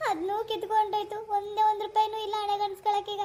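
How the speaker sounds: wailing self-reproach; tearful lament. Acted. Wife blames her own mouth for losing the ghost's money, tearful. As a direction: grieve aloud with a touch of sobbing. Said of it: "ಹಿಂಗೆ ಅಳ್ತಾ ಕೂತ್ಕೊಂಡಿಯೋ".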